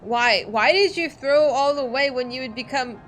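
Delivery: loud, slow, defiant son; angry young Sahagin. Acted. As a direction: spit out the rejection with fury. Plays Sahagin son character.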